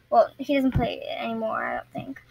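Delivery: soft unvoiced aside; whispered aside. Real, not acted. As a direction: whisper it as a side note. Aside correcting herself.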